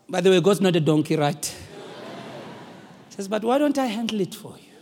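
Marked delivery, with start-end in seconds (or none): 3.3-4.7 soft, unhurried reassurance, dropping to hushed; gentle offer. Acted. God offering to carry your burden, gentle and hushed. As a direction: offer tenderly to take the load.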